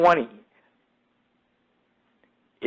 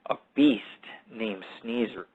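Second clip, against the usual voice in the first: spooky whisper; 4 semitones lower, 8 dB quieter than usual. Real, not acted. Spooky aside about his cat.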